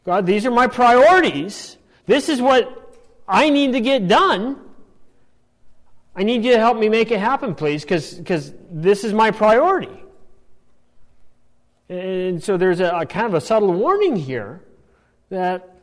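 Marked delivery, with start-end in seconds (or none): 0.0-10.0 demanding prayer. Acted. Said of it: "we tell God what to do".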